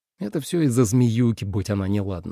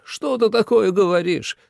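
much higher, dismayed father; father's exclamation; 9 semitones higher than usual. A narrator's reading. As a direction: protest in alarmed disbelief. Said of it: "воскликнул Джу старший". (отец изумлённо восклицает, высоко)

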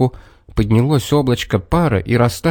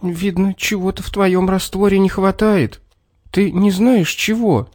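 crushed voice; 7 semitones higher than usual. A narrator's reading. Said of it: "Убитым голосом".

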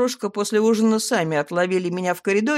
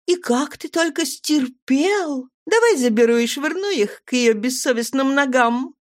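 mock lament; 7 semitones higher than usual. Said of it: "запричитала я".

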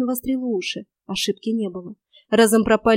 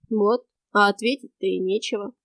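calm, matter-of-fact stranger. A narrator's reading. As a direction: state it calmly, unbothered. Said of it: "спокойно констатировал он". (спокойная констатация)

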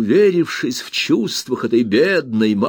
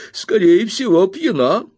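high, louder outraged cry; indignant exclamation; 9 semitones higher, 4 dB louder than usual. Acted. Miss Murdstone exclaims, higher and louder, that the aunt is drunk. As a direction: exclaim it in scandal.

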